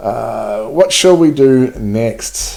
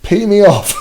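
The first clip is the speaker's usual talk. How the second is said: mildly peeved; 10 semitones higher, 4 dB louder than usual. Real, not acted. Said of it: "this is starting to pee me off".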